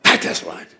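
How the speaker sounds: a low, breathy tither's claim; low hushed claim. Retold or imitated. Preacher voicing the tither's answer, low and hushed. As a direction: drop it low and hush it out. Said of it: "I will rebuke the devourer".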